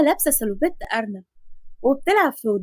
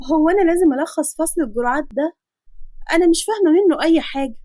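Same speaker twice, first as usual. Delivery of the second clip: put-on a higher, louder pleading young woman; whining girl student; 5 semitones higher, 3 dB louder than usual. Nafisa pleading with the doctor over the dosage chapter, higher whiny voice. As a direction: whine that you understand nothing.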